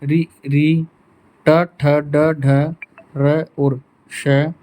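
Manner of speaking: रि री and र श drawn out slowly, with ट ठ ड ढ in between; teacher slowly sounding out the retroflex letters; retroflex review. Shown as a demonstration. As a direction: curl the tongue and sound each letter out. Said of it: "मूर्धन्य".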